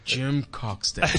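porn star name. Pretend. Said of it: "It sounds like a porn star's name".

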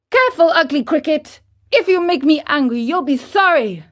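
put-on fast, high, loud threatening boy; angry threat. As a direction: spit out the warning quickly. Pinocchio threatens.

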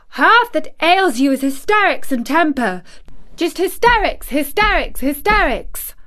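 hysterics hit high and loud each time; stamped repetition. A narrator's reading. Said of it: "she stamped each time she said it".

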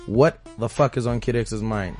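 normal talking voice

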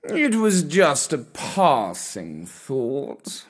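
slow, courtly purring cat voice; a kindly old cat proposing gently; old gentleman cat. Acted. Comrade Gatsby voiced in story.

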